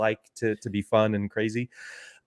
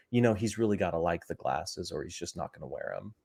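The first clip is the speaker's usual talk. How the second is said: low, soft, quickly murmured advice; imitating a hushed, discreet remark; quiet aside; 6 semitones lower, 8 dB quieter, faster than usual. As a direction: lean in and confide it quickly. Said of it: "kinda quietly was like".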